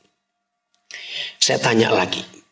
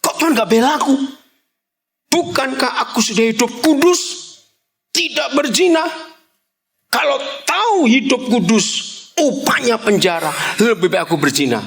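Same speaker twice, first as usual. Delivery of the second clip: complaining Joseph; 9 semitones higher than usual. Retold or imitated. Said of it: "pasti ngomong begini".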